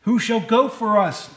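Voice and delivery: slow, solemn call; lightly voiced divine call; voice of the Lord. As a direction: ask it slowly and gravely. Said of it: "the voice of the Lord saying".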